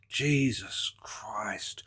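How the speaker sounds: slow, breathless exasperated whisper; whispered aside. Real, not acted. Reacting to the green screen, a slow exasperated whisper. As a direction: whisper it to yourself in disbelief.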